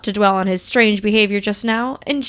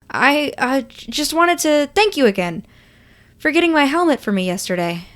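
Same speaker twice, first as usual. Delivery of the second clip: nervous; 5 semitones higher, 4 dB louder than usual. Acted. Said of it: "You gesture nervously as you speak".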